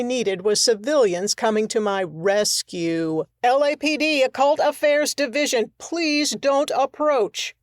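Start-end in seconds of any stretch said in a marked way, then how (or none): 3.4-7.5 police command. Acted. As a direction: order the civilians back. Officer warning civilians off.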